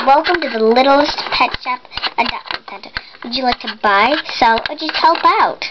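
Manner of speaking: fast, bright clerk patter; shopkeeper greeting. Pretend. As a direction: rattle off the welcome.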